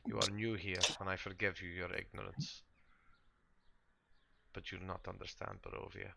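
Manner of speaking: lightly voiced, formal and deliberate sister; resigned game character. Sister warns newcomers about the undying lord, lightly voiced resignation. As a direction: patiently explain a hopeless cause, with pauses.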